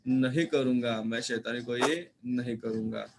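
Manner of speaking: a mildly tearful, slowed plea; hint of tears as the boy begs forgiveness. Sunil, close to tears, begs Raat Rani for forgiveness, mildly tearful. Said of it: "रुआसा होकर".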